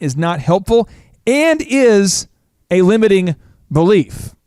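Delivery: slow, deliberate pledge read aloud. Acted. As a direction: recite it slowly like a solemn oath.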